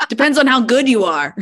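teasing through laughter; laughing, teasing the actor; laughing tease. Real, not acted. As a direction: chuckle it out as a playful jab.

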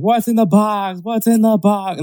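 high, agitated mock movie plea; Brad Pitt. Friend retelling the scene from Seven, high and frantic imitation. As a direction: imitate a frantic, repeated demand. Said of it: "Brad Pitt's like".

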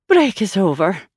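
a light, pleasant tone with a hidden edge; pleasantly. Acted. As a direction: sweetly end the break. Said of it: "she said pleasantly".

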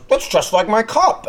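slowed-down teasing imitation; imitating co-host. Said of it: "he goes".

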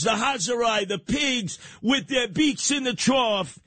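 high-pitched, stretched-out denunciation; worked-up soapbox outrage; indignant rant. Real, not acted. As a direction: rail at the culprits, drawing out key words. Rant against Wall Street bailouts.

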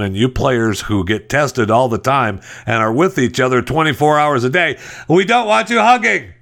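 rising up into a high, put-on whine; mock official whine. Mimicking government warning.

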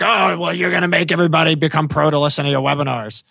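lightly voiced old lady; quick whiny old lady complaint. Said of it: "that's my old lady voice".

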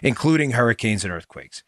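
measured host-read sponsor pitch; steady, practiced sales read; radio ad read. Acted. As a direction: read it as an ad, slowing on the web address.

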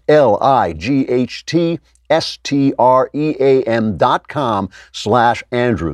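slow, letter by letter; slow spelled-out URL. Acted. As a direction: spell each letter out slowly.

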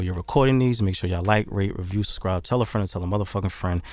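rapid-fire auctioneer patter. Acted. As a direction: rattle off the plugs like an auctioneer. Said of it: "I had to put on my auctioneer voice".

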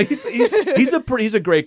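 high and loud through laughter; delighted laughing surprise. Real, not acted. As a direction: laugh while praising him. Laughs at shared acquaintance.

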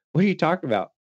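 high-pitched baffled comeback; retold incredulity. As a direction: imitate a buddy who can't believe it. Buddy's retold disbelieving reply.

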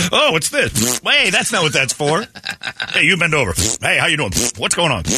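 high, laughing flirty greetings; flirty party host. Retold or imitated. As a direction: charm every guest you meet. Rock greets men at party.

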